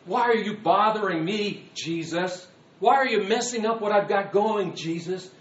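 put-upon, accusing condescension; condescending. Acted. Challenging Jesus for bothering him, condescending. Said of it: "The condescension towards the Lord".

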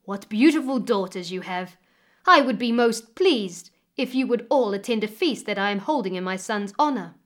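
loud, delighted village head; exclaiming. Acted. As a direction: exclaim it with pleased warmth. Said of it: "he exclaimed".

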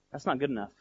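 soft, understated voice of God; quiet rebuke. Retold or imitated. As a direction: let it drop, soft and final.

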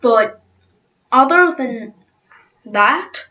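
lightly put-on British accent. Judge giving an evaluation of Togama, British accent. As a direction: give the contestant's verdict in a British accent. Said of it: "this is my British accent".

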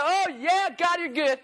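high-pitched hyped-up praise; mock excitement. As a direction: imitate a worked-up worshipper. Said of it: "everybody starts getting excited".

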